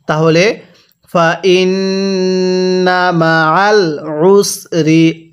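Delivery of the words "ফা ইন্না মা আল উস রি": the আইন in আল squeezed from the throat; pressed throat ain. Shown as a demonstration. Teacher demonstrates the pressed throat sound of ain. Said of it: "গলার মধ্যে একটু চাপ দিয়ে পড়ব".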